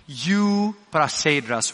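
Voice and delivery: Euprasedras said slowly, syllable by syllable: yu-pra-SAY-dras; slow teaching pronunciation. Shown as a demonstration. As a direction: spell out Euprasedras slowly for the class, falling at the end. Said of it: "Can you say that with me?".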